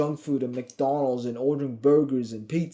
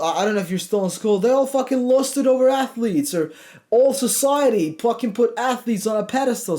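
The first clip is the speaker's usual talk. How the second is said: hyped up; 6 semitones higher than usual. Real, not acted. Hyping viewers up.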